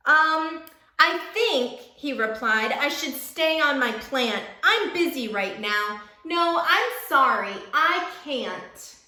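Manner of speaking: lively, sing-song picture book reading; reading to children. A narrator's reading. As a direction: read it like storytime for little kids.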